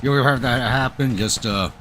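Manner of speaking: talking around a cigarette; words slurred past a cigarette; cigarette in mouth. Real, not acted. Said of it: "sorry, cigarette in my mouth".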